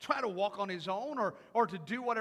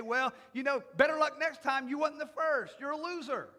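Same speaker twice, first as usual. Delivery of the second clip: mocking consolation; 3 semitones higher, 5 dB louder than usual. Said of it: "patting him on the back and say".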